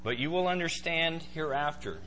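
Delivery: calm, polite assurance; measured, patient reply; calm Jesus. Acted. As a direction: reassure without any force. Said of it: "says very calmly".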